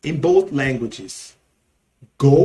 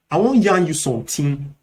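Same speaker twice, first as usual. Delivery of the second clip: Nigerian Pidgin; faster than usual. Shown as a demonstration. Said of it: "in Nigerian Pidgin English".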